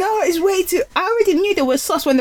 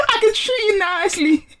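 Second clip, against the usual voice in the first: mock smooth talker; 9 semitones higher than usual. Joining the market men impression.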